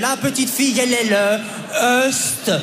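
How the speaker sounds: very slow stretched habillée; slow dictation. Retold or imitated. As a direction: drag it out, exhausted. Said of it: "Elle était là".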